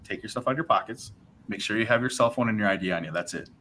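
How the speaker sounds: quietly tipping him off, voice dropped; hushed cop aside. Retold or imitated. Friendly cop warning him aside, softly hushed.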